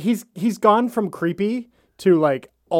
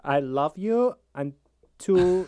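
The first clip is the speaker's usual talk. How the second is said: creepy lover; 3 semitones lower, slower than usual. Acted. Mock Carl creepy vow.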